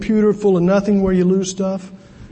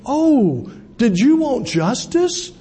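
lightly voiced professor, higher-pitched mock question; imitated professor; 6 semitones higher, slower than usual. Professor answering a student's complaint, lightly mocking question. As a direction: put on the professor's slow, raised-pitch challenge. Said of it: "I hear the professor say".

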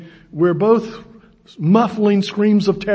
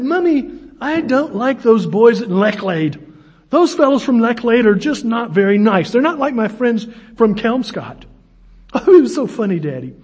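higher-pitched mock English lady; broad English accent; 4 semitones higher than usual. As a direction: imitate a chatty Englishwoman, pitched up. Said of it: "broad English accents that sounded put on".

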